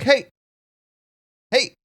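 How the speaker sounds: a tiny, nervous frog asking politely; small shy frog guest, hungry but apologetic; Sal the small frog. Acted. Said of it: "and then be like".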